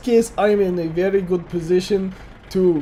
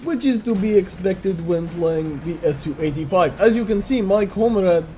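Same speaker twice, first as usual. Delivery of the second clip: a light, hammed-up Russian accent all through; mock Russian accent, lightly done; bad Russian accent. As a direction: play a jokey Russian tank commander with a thin Russian accent. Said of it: "I'm doing my bad Russian accent".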